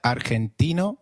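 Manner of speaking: argentino said "ar-hen-TEE-no"; G as throaty H. Shown as a demonstration. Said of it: "pronounced like a throaty H".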